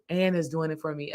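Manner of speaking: imitated husband's whisper. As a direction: breathe it like a private joke.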